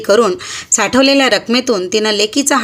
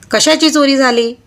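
barking policeman; 5 semitones higher than usual. Acted. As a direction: bark the question at her. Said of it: "जोरात खेकसून तो म्हणाला". (पोलिसाचा खेकसून विचारलेला प्रश्न)

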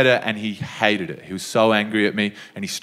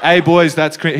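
louder, laughing re-quote of a casual put-down; cool dismissal; 4 semitones higher, 5 dB louder than usual. Retold or imitated. Comic quoting the cool kid's put-down, amused and louder. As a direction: savour the four syllables. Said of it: "He did it in four syllables".

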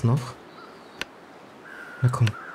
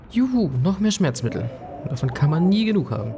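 cheering; 5 semitones higher than usual. Real, not acted. Finding painkillers.

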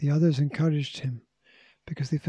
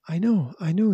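higher, excited outburst; sudden realisation; 4 semitones higher, 4 dB louder than usual. A narrator's reading. George suddenly guessing who is outside, excited outburst. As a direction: burst out as the answer strikes you. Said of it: "said George suddenly".

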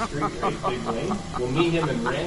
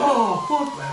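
imitating Danny; 13 semitones higher, 6 dB louder, slower than usual.

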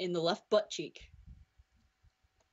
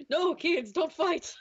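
high, raised parent's warning; mock scolding parent; 9 semitones higher, 3 dB louder, slower than usual. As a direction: tell the kids off in a raised voice.

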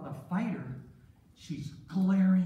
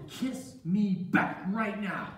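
slow, drawn-out command; demanding; 4 semitones higher, slower than usual. Acted. Boss's wife orders Joseph to kiss her, demanding. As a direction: insist on it, word by word.

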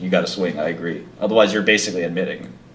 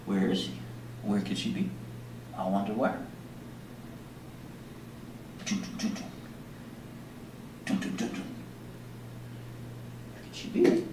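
soft pretend searching; playful hushed wondering; 16 dB quieter than usual. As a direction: murmur as if hiding in hide-and-seek. Hiding from cat in game.

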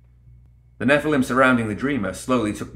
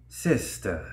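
hissed; 2 semitones lower, 6 dB quieter than usual. Acted. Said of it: "Nekima hissed".

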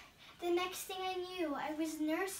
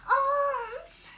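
loud, high, rising cries of alms; a street child wailing for alms; beggar's plea; 7 semitones higher, 8 dB louder than usual. Acted. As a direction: call out begging to passers-by.

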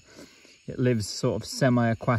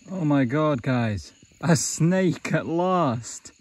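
thrilled outburst, slowing on the last words; excited; 3 semitones higher, 4 dB louder, much slower than usual. Real, not acted. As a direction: blurt it out, delighted. Finding a snake after long search.

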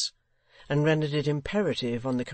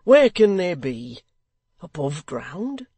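much louder, slow impatient demand; 4 semitones higher, 9 dB louder, slower than usual. Acted. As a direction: press him, fed up. Haredale continues impatiently.

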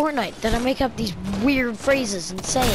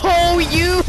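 laughing shout; 3 semitones higher than usual. Real, not acted. Gamer tricked by a friend, laughing shout. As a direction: yell then crack up.

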